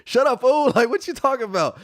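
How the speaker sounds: hammed-up parent shushing the kid; mock hushing. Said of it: "giving him the cutoff sign".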